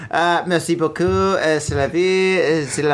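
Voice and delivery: mock French. Joking French apology to French listeners.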